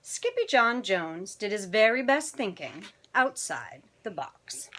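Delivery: animated picture-book narration; children's story reading. A narrator's reading. Storyteller reading tonight's picture book to children, animated. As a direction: read it expressively to young listeners.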